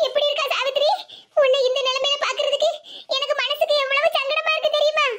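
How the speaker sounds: acted, mildly plaintive concern; distressed concern. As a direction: lament gently over a sick relative. Distressed visitor greets sick relative.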